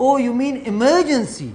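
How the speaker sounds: mock the American catching on; imitating an American. (امریکی کی نقل، کھینچ کر)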